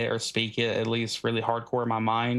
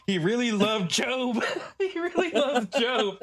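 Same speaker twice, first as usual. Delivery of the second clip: high, slow mock Brazilian accent; awed follower in a hammed-up accent, laughing; mock foreign accent, drawn out and high; put-on foreign accent; 12 semitones higher, slower than usual. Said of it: "incorporating this accent".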